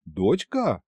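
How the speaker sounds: low, slow disbelieving question; stunned question. Acted. Fedya repeating the news to Snezhina, stunned question. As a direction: echo the word in shock. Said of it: "тон произнёс я".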